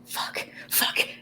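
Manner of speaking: hushed dismay, sinking into a whisper; cringing dread. Acted. Orion hears grandma's call and cringes, hushed. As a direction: swear under your breath, dreading it. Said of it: "cringes and is like".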